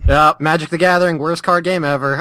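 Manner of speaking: mock outrage, rising high; deadpan sarcasm turning shrill; sarcastic. Mock trashing a beloved game.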